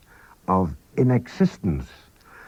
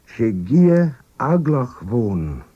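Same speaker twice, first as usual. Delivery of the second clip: higher, louder and slow, as if amazed; astonished, drawn-out exclamation; note of surprise; 4 semitones higher, 4 dB louder, slower than usual. Shown as a demonstration. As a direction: say it in wonder at the wind. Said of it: "You could put it a, a note of surprise there".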